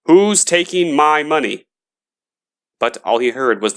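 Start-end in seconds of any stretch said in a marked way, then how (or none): 0.1-1.7 higher, louder alarmed call; frightened shout. Acted. Gravedigger hears his coins, calling out loud and higher. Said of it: "the gravedigger shouted".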